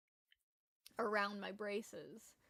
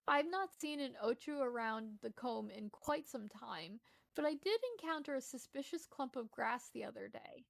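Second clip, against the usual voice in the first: slightly lifted, lilting storytelling read; lightly performed quest-giver reading; game dialogue read-aloud. Acted. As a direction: read out a quaint fantasy character's lines. Reads game character dialogue aloud.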